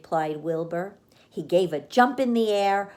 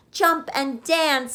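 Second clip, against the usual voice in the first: higher, slow rooster voice; 7 semitones higher, 4 dB louder than usual. A narrator's reading. The rooster advising Wilbur, crowing. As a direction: crow it out. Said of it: "said the rooster".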